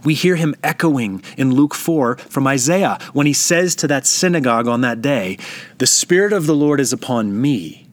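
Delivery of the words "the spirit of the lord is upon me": me given the weight at the end of the line; emphasis on me. Shown as a demonstration. Preacher reading scripture aloud to the congregation, stressing me. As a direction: lean on the word me as you read. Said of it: "Did you hear my emphasis".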